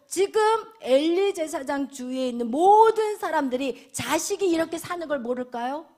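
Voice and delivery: usual speaking voice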